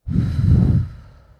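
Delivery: long loud exhale through the mouth; a heavy, audible letting-go breath; deep breath out. Shown as a demonstration. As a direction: demonstrate a big releasing sigh. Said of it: "So take a deep breath".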